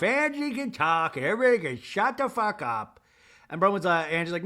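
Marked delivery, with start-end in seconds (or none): 0.0-3.0 imitated angry order. Acted quarrel, Meredith cuts in.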